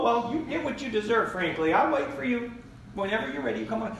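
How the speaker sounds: sarcastic shepherd. Retold or imitated. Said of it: "He does not come to that sheep and say".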